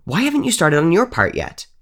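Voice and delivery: put-on a ghost girl scolding her friend; glaring demand. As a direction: demand it with a glare. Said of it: "the girl's glare boring through her face".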